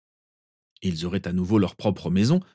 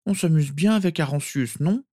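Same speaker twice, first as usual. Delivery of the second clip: put-on higher child's voice, coaxing; murmuring sleepy boy; 8 semitones higher than usual. A narrator's reading. Sirius fighting sleep, coaxing cousin, murmuring. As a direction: coax like a drowsy little boy. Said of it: "murmura Sirius".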